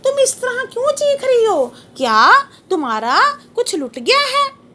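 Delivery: lightly voiced prisoner poet, anguished question; poet asking the cuckoo. Poet in jail asks the crying cuckoo, mildly anguished. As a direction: plead with the bird in pained wonder. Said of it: "कोयल से वेदनापूर्ण आवाज़ सुनकर पूछ रहा है".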